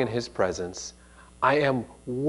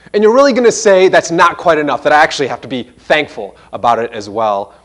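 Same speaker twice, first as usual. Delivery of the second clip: imagined objection; 2 semitones higher, 5 dB louder than usual. Pretend. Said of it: "some of you might say".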